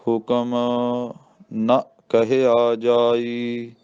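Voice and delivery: ਨ said short as "na", not "naa", very slowly; drawn-out recitation keeping ਨ short; ਨੰਨਾ ਮੁਕਤਾ, ਹੌਲੀ ਪਾਠ. Shown as a demonstration. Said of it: "ਇਹ ਨੰਨਾ ਮੁਕਤਾ ਬੋਲਣਾ".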